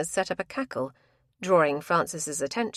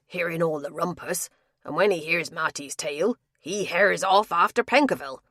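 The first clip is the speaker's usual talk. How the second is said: louder, worked-up country tapster; rough tapster voice; 3 dB louder than usual. Acted. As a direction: tapster ranting his tale. Tapster continues his tale.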